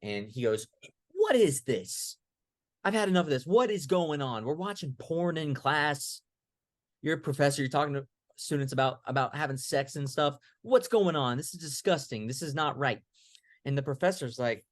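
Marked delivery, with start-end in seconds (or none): 1.1-13.0 a student fed up, shouting down the room; indignant student.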